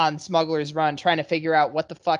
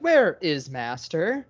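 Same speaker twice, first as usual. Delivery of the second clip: slow, drawn-out smart fridge voice; a lost appliance asking slowly; slow robot fridge; 3 semitones lower, much slower than usual. Retold or imitated. A smart fridge asking for its dead owner, slow and robotic. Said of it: "your smart fridge was like".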